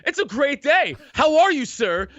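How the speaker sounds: high, sugary fake-polite voice; mock polite. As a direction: ham up a meek, overly courteous guy. Mocking overly polite tough guys.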